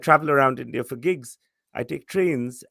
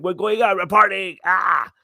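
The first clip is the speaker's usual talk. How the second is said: excited party friend; 5 semitones higher, 6 dB louder than usual. Retold or imitated. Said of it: "he's gonna be like".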